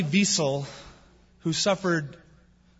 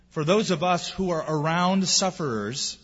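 ordinary talk, nothing marked

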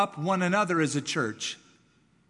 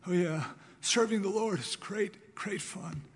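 sarcastic fake cheer; 4 semitones higher than usual. Beaten sheep faking enthusiasm.

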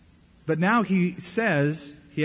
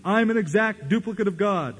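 much higher, urgent exhortation; imitating a hyped preacher; 5 semitones higher than usual. Egging the congregation on to chant, much higher and urgent. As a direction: whip the crowd into chanting. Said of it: "he leads them in unison".

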